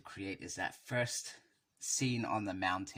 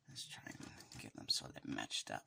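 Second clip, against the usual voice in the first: whisper; 10 semitones lower, 7 dB quieter than usual. Real, not acted. Whispers aside while posing figures.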